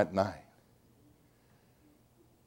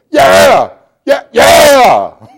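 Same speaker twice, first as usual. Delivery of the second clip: tearful yes; 9 semitones higher, 10 dB louder, much slower than usual. Retold or imitated. Father answering son's salvation call.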